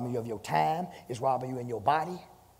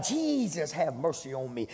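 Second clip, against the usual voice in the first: crying out to Jesus; slower than usual. Retold or imitated. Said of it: "he cried out".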